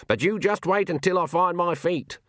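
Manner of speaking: put-on old witch voice, high and stubborn; a crotchety old witch vowing she'll be back on her feet; Granny's voice. A narrator's reading. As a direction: play the proud old witch, defiant.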